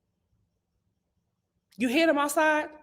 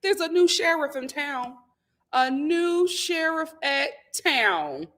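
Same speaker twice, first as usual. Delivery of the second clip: a touch of tough lawman; lightly voiced new sheriff; mock sheriff; 5 semitones higher, 4 dB louder than usual. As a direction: lay down the law to the salamander. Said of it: "I'm like".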